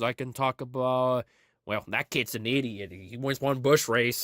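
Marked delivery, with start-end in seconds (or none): 1.6-4.2 low, lightly imitated grumbling driver; Tony Stewart. Racer dismissing a young driver, low mock impression. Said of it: "I did a Tony Stewart impression".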